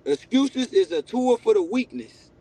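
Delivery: slow and deliberate, each word weighed. Shown as a demonstration. Repeating his saying slowly for the interviewer. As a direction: land the line slowly so it sticks. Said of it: "Say it again".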